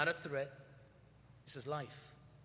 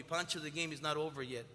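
gentle reassurance; 2 semitones lower, 3 dB quieter than usual. Retold or imitated. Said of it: "he told me".

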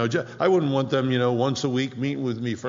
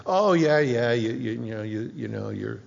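patronize the naive believers with fake praise; lightly voiced smug false teacher. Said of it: "False teachers are always this".

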